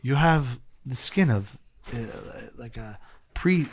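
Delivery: slow, lightly imitated South American accent. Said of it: "like, South American accent".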